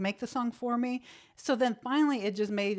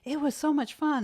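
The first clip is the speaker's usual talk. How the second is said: gushing newcomer; 6 semitones higher than usual. Retold or imitated. Imitates herself acting new to radio.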